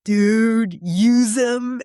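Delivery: high, mock-blunt voice; blunt quote. Imitating Rem telling the caller to use the chopsticks, high and blunt. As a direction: toss it off as a high exasperated order. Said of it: "Rem was just like".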